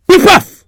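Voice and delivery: sharp, high, loud bang bang; gunshot sound. Acted. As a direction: fire off a mock gunshot. Gunshots in the tale.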